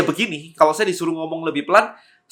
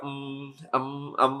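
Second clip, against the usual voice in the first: imitated filler ums; 8 dB quieter, slower than usual. Creator mimicking his early video habit, quiet filler ums. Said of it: "setiap kalimat saya bilang".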